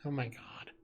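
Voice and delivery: breathy shocked whisper. Real, not acted. Whispering in shock at a friend's awful joke. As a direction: hush it, barely voiced. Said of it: "even just whispering it".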